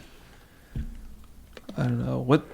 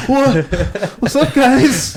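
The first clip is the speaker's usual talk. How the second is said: high mock kid voice; 13 semitones higher, 6 dB louder, much slower than usual. Retold kid barging in on play.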